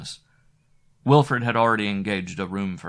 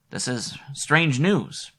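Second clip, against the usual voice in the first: grave Wilfred; 6 semitones higher, slower than usual. Acted. Wilfred uneasy after the news.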